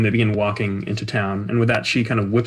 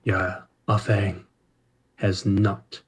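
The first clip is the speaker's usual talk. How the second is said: almost a growl; 2 semitones lower, 5 dB quieter than usual. Acted. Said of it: "almost growls in your ear".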